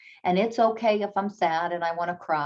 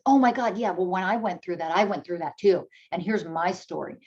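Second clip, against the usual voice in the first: self-centered friend. Retold or imitated. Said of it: "the person immediately says".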